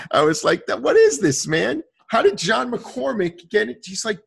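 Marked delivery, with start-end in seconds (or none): 0.7-3.8 high, loud, incredulous demand; shocked demand. Retold or imitated. To Tony on learning the news, incredulous and loud. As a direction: demand answers in disbelief, pitched way up.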